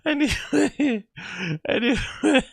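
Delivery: a hint of a Latina accent, high; drawled Latina accent anyway. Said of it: "my bad Latina accent aside".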